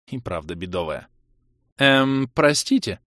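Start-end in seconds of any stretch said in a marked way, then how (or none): 1.8-3.0 icy cold. A narrator's reading. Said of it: "резко похолодевший голос Елены".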